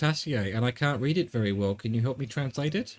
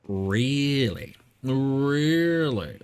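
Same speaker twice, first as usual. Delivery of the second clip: incredulous; much slower than usual. Real, not acted. Incredulous repeated reaction.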